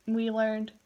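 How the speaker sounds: words pulled long by a yawn. Real, not acted. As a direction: say it mid-yawn. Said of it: "I have the yawn so badly".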